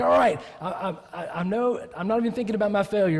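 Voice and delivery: stammering, mildly excited eagerness; acted excitement. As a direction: play an eager man tripping over his words. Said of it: "He's so excited".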